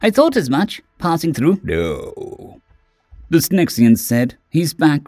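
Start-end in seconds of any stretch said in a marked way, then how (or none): 0.0-1.6 timid small creature. Acted. Keswick voiced high. 1.6-2.6 curt low no. Acted. Synexian curt reply.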